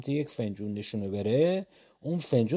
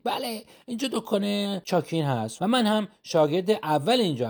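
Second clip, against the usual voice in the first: put-on lightly higher, courteous shop boy; polite apprentice; 4 semitones higher than usual. Apprentice greeting the customer, lightly higher and courteous. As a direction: welcome the customer deferentially.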